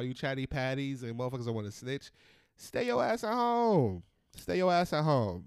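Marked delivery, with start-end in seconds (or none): 2.6-5.4 telling off. Real, not acted. Telling snitches off.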